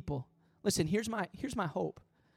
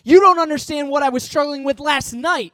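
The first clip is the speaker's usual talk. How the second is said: despairing plea; 4 semitones higher, 8 dB louder than usual. Acted. Struggling person telling the pastor God can't use them, building to a cry. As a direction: let the protest swell until it breaks out. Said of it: "they'll say".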